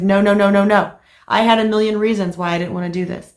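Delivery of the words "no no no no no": louder, insistent run of no's; firm repeated no. Retold or imitated. Wife refusing her husband's request, firm insistent no's. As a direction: shut him down flat, no after no. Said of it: "I said".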